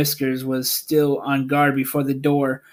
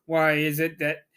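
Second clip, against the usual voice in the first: solemn great Oz; 4 semitones higher, 5 dB louder than usual. A narrator's reading. The hidden wizard announcing himself to the travelers, solemn and booming. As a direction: boom it out like a hidden, mighty wizard. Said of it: "said solemnly".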